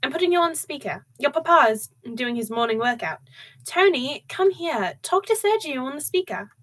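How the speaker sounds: mother shouting into the speakerphone; shouting into the phone. Acted. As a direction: shout so the whole room hears. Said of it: "she shouted into the phone".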